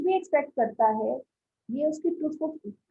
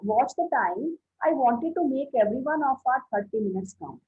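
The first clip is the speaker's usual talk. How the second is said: slow text reading; much slower than usual. Acted. Teacher reading the textbook to students, slow and deliberate. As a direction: read the line slowly and carefully, word by word. Reads the passage aloud slowly.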